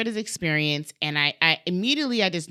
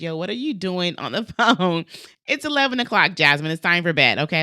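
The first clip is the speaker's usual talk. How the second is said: husband's mild scold; 4 dB louder than usual. Retold or imitated.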